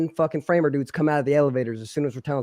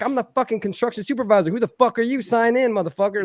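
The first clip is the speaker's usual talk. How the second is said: retold angry retort; 7 semitones higher than usual. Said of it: "And I'm like".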